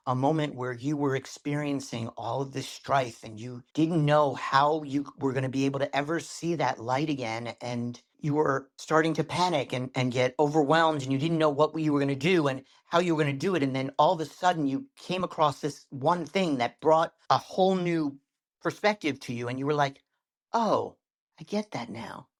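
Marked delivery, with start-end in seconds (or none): 0.1-7.5 slightly hushed, measured storytelling; slowed storytelling voice. Shown as a demonstration. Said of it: "I can slow my voice down". 7.6-19.5 storytelling that gathers speed; talking fast. Shown as a demonstration. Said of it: "you talk fast". 20.5-22.3 a small "oh", then a hushed moment of understanding; changed tone, realization. Shown as a demonstration. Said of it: "you change your voice and your tone".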